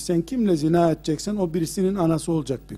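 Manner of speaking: low, soft, patient reasoning; gentle fatherly counsel. Retold or imitated. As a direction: quote a kind elder explaining quietly. Prophet gently reasons with the young man.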